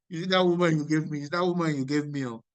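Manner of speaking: fast, laughing through Adam's excuse; laughing mock Adam. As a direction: rattle it off mockingly with a laugh. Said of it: "he said".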